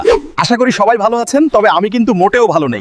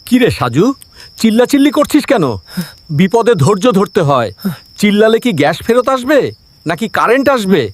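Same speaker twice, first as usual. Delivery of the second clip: measured, mild reprimand; calm scolding. Acted. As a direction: rebuke them without raising the voice. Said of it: "শান্ত গলায় সবাইকে ধমক দিয়ে".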